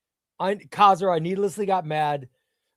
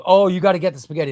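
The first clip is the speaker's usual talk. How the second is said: quick, louder, pushy wife; lightly voiced wife urging the spaghetti, fast; imitating wife; 3 semitones higher, 6 dB louder, faster than usual. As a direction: rush it like an insistent wife. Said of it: "She goes".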